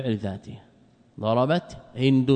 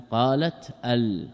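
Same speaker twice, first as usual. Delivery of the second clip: slow demo; slower than usual. Shown as a demonstration. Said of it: "تاء ساكنة واللام ساكنة".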